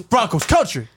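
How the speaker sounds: slow team name, then a low drop; Russell Wilson catchphrase take. Shown as a demonstration. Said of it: "I gotta do two of them".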